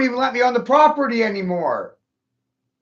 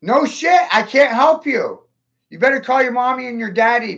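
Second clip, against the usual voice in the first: anguished outburst; 5 semitones higher than usual. Real, not acted. Distraught call to imprisoned family member.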